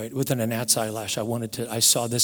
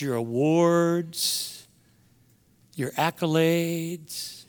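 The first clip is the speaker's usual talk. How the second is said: Fred Rogers; slower than usual. Retold or imitated. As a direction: recite slowly and gently, lingering on key words. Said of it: "I'd listen to Fred Rogers, Mister Rogers, say these words".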